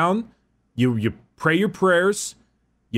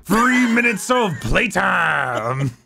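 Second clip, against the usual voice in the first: wrestling promo; 2 semitones higher than usual. Acted. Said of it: "This has turned into a wrestling promo".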